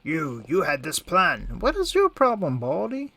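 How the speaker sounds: a slow, accusing start, then yelling high and loud at the bald monk; mock angry yell. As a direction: fake outrage shouted at the screen. Player yelling at game character.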